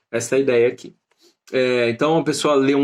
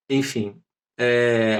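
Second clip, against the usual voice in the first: ordinary talk, nothing marked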